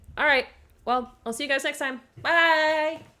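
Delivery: put-on cheerful, belted voice.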